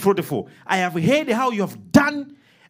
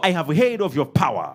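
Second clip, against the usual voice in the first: leading a prayer; 6 semitones lower than usual. Shown as a demonstration. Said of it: "Come on, somebody say".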